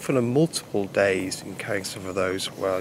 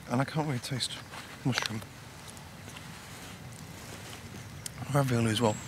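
talking while chewing food; mouth full; 3 semitones higher, 7 dB quieter than usual. Real, not acted. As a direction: spoon at the lips. Seen 0: Bites at -2, spoon in mouth 0.8-1.3 while talking.

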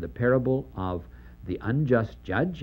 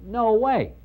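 higher, louder scoffing no; emphatic denial; 10 semitones higher, 4 dB louder than usual. Retold or imitated. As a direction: shout it down as absurd. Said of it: "the audience says".

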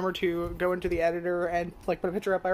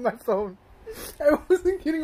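muffled through cupped hand; speaking behind her hand; 8 semitones higher, 5 dB louder, slower than usual. Real, not acted. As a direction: hand pressed over lips. Seen 2: Hand covers mouth from 1.4 to 3.2 s, below the chin otherwise.

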